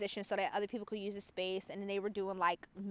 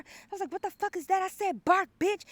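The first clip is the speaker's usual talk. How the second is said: laughing command; 10 semitones higher, 6 dB louder than usual. Retold or imitated. Retelling commanding sub, laughing.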